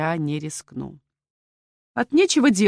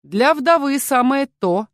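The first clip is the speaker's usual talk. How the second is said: smirking; 6 semitones higher, 5 dB louder, slower than usual. A narrator's reading. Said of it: "хмыкнул граф".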